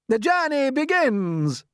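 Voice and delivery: high, loud, slow announcement; proclaiming shout. Acted. Centipede proclaims the journey, loud and grand. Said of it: "shouted the centipede".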